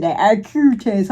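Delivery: slow, lightly mimicked southern twang; imitated southern accent. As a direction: savour the southern accent slowly. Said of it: "a rapper got a cute accent".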